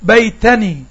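بيتني said with a clear sukoon on the last nun; teacher demo of بيتني. Shown as a demonstration. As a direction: stretch out بيتني so the nun is heard. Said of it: "انت سمعتها ايه". (نطق واضح لكلمة بيتني)

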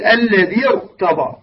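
slow "الذي ارتضى", linked into a thick "rta"; heavy ra. Shown as a demonstration. Teacher gives a Quranic example of incidental kasra, heavy ra. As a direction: slowly join "الذي ارتضى", keeping the ra heavy. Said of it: "هكذا تفخمها".

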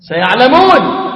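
warning recitation. Acted. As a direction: sound the threat in سيعلمون.

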